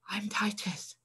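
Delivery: soft unvoiced whisper; boy whispering his name under the sails. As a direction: breathe the name out, hiding. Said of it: "whispered the young boy".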